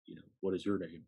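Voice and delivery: lightly imitated deep-voiced man; a hint of a deep, welcoming recruiter. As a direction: put on a mild deep-man greeting. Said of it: "with a really deep voice goes".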